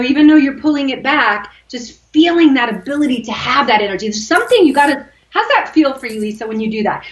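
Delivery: ordinary talk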